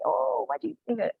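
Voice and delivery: bright, high questioning teacher; teacher asking question. Shown as a demonstration. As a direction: ask the class like a curious teacher. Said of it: "So discussing".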